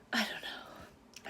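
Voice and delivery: breathless whisper, overcome with feeling; a real whisper to her viewers, too moved to speak. Real, not acted. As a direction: let it fall away into a whisper. Overwhelmed, repeats it under her breath.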